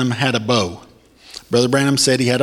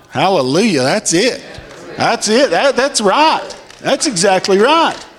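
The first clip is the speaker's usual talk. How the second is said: higher, joyful cries of hallelujah; exultant shout; 7 semitones higher than usual. Real, not acted. Preacher celebrating the prophet's revelation, exultant shouting. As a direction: rejoice at the revelation.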